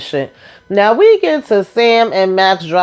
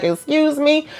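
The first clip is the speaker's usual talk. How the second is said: high, softer incredulous question; taken aback; 9 semitones higher, 4 dB quieter than usual. Retold or imitated. Husband hears his wife was beaten up, taken aback. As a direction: imitate a husband caught off guard. Husband reacting to shocking news.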